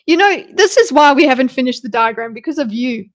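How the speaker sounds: loud playful telling-off, easing at the end; mock scolding. Dog owner to baby girl Daisy, mock scolding. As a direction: pretend to blame the dog.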